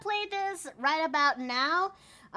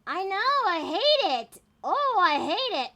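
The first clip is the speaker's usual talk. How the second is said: frustrated; 5 semitones higher, 6 dB louder than usual. Real, not acted. Stream keeps skipping.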